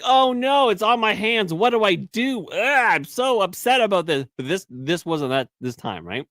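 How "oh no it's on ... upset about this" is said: put-on whiny baby voice. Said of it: "and then they're like".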